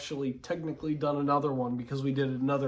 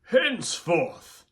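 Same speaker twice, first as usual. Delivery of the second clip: Darth Sidious; much slower than usual. Retold or imitated. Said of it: "another line of Darth Sidious's".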